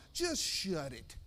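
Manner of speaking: slow, hushed brush-off; low dismissal. Acted. Curt answer to mock complaint.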